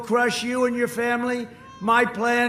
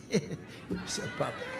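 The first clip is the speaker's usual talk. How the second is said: breathy laugh through the words, much softer; scornful chuckle; 10 dB quieter, slower than usual. Real, not acted. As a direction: laugh it out mockingly. Laughing while mocking the rival.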